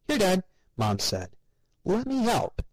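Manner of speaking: high, sugary chirp to her parents; sweet mother. A narrator's reading. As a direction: talk to them like happy toddlers. Mother helping Grandpa.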